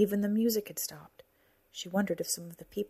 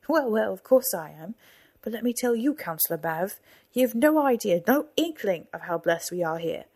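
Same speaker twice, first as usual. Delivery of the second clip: boastful; 2 semitones higher, 5 dB louder than usual. Acted. Boastful patriarch.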